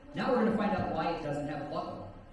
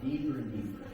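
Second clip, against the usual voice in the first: hypnotic suggestion. Acted. Hypnotist induction again.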